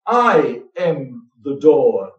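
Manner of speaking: long, emphatic "I", then "am the door" falling; "I" drawn out and weighted; stress on I. Shown as a demonstration. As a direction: slowly lean on the word "I". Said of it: "I would like to emphasize that".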